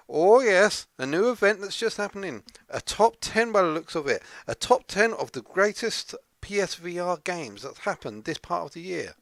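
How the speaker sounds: cheerfully overplayed Scottish sidekick; Scottish accent. Sidekick excitedly explaining the top ten, mock Scottish accent. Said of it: "put on this weird Scottish accent".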